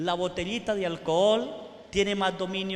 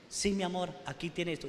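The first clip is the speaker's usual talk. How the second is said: gentle husband; 5 dB quieter, faster than usual. Retold or imitated. Spiritual husband gives freely.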